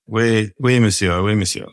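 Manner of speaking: jokey put-on French accent, tossed off; mock French. Farmer jokes to his old mate in mock French accent. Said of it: "your French is still pretty rubbish".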